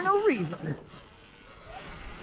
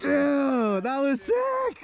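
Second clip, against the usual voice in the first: hyped shout; 2 semitones higher, much slower than usual. Real, not acted. Cheering a friend's jump.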